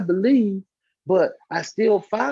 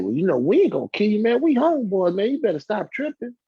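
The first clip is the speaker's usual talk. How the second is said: mock reassuring dealer; 5 semitones higher, 4 dB louder than usual. Drug seller reassuring, quoted.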